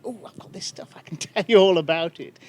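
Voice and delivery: mock-gleeful, breathy start then a laugh; a light send-up of eager glee. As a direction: imitate someone bursting to share facts. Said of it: "there's just a sort of glee in".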